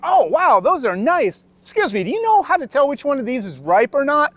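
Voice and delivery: hint of a clueless older shopper asking politely; naive shopper. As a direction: play it wide-eyed and harmless. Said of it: "And I'm like".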